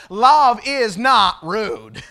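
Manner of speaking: loud, slow, connected "love is not rude"; emphatic declaration. Shown as a demonstration. Preacher restates the text in today's words, emphatic. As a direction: proclaim it forcefully in one drawn-out phrase. Declares the point, first take.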